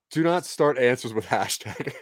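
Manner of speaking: slow, deliberate automated warning; phone menu voice. Acted. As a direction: scold like a robot menu.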